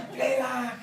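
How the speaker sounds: high, laughing retelling of a scared plea; laughing imitation. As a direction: giggle through the quote.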